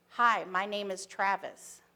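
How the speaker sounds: slow, even, unvaried greeting; monotone voice. Retold or imitated. Travis greeting Angela on the park bench, slow monotone. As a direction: say it level, each word the same, like Travis would. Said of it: "he said in a very monotone voice".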